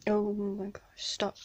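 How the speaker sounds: whispered under the breath. Real, not acted. Vlogger opening a package, hushed whisper. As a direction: breathe it out, overwhelmed. Overwhelmed by the gift.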